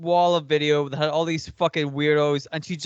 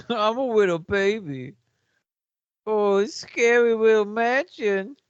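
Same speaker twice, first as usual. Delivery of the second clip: mocking babyish voice, raised pitch; baby talk; 4 semitones higher than usual. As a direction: mimic a baby's lisping little speech. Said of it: "she talks like a baby".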